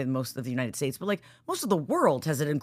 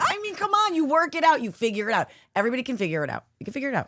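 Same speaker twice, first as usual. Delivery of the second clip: mock pep talk; 8 semitones higher, faster than usual. Real, not acted.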